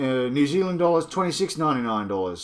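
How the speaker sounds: badly faked Kiwi accent; awful New Zealand accent. Reviewer giving New Zealand prices, awful mock Kiwi accent. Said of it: "that was an awful accent now".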